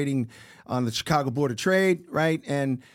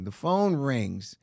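even slower, low repeat; dramatic slow; 3 semitones lower, much slower than usual. Retold or imitated. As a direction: stretch each word for suspense. Repeats for suspense.

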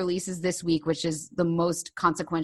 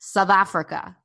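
"South Africa" repeated in a South African accent, louder; 4 dB louder than usual. Shown as a demonstration. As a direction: copy the local "South Africa". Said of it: "Say it".

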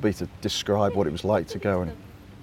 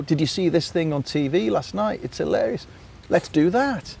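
excited pitch; 6 semitones higher than usual. Retold or imitated. Writers quoted pitching.

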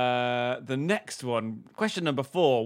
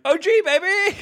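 breathy high moan of pleasure; mock moaning; 7 dB louder than usual. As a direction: moan it out, hammed up. Mock moaning while cleaning naked.

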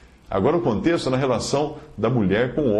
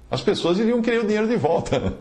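higher-pitched, breaking into a laugh; amused, laughing; 12 semitones higher than usual. Real, not acted. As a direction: say it as a joke you can't help laughing at. Joking remark that ends in laughter. (achando graça, com riso na voz)

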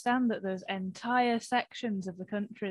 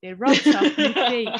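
Northern caricature building to a loud finish; mock Northern accent; 6 dB louder than usual. Comedian joins the fifties sketch, hammed-up Northern accent. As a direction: play up the hard-up Northerner.

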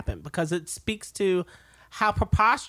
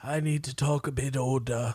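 mock older man, a little lower; Charles voice; 4 semitones lower than usual. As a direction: put on a stuffy old gent. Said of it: "Is this gonna be your Charles accent".

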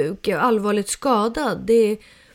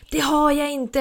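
mildly indignant, higher-pitched retort; retold huffy comeback, not shouted; irritated denial; 6 semitones higher than usual. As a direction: imitate a son's annoyed denial. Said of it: "Han blev så här typ förbannad".

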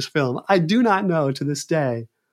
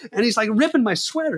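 ordinary talk

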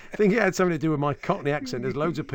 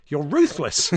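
punchline blurted through a laugh; loud, laughing retort; 4 semitones higher, 4 dB louder, slower than usual. Retold or imitated. Punchline of the Rufus name mix-up.

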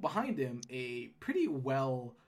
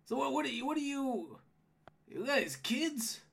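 higher-voiced gnome guard, building louder into a laugh; gatekeeper gnome, amused; 12 semitones higher, 7 dB louder than usual. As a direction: size up the newcomers in amazement.

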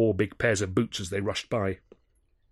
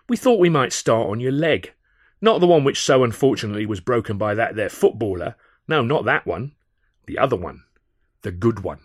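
menacing thug; 6 dB louder than usual. A narrator's reading. Thug threatening leg.

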